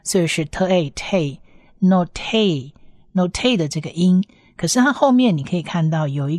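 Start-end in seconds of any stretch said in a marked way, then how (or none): 0.4-3.6 特 and a blended slowly into te, then no te; sounding out syllables. Shown as a demonstration. Teacher joins syllables for learners, sounding out 特a te, no te. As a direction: build no te piece by piece, slowly. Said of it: "特的音呢加上它下面的母音".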